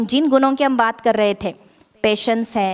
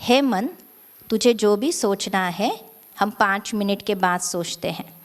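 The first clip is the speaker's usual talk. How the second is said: tender, unhurried talk to oneself; loving address. Shown as a demonstration. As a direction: gently coax the mind. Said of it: "अपने मन को बड़े प्यार से कहेंगे".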